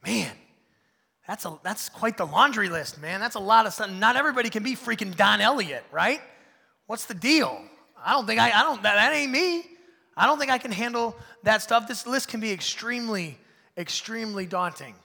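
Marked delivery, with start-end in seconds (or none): 0.0-11.9 louder, anxious, near-crying protest; overwhelmed worry. Pretend. Churchgoer overwhelmed by the list, half-crying worry. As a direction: plead that it's too much. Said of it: "we're thinking".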